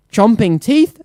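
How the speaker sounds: high, gasped in fright; gasping. Acted. Townspeople gasping in fright at the beast. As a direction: gasp it out. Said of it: "they gasped".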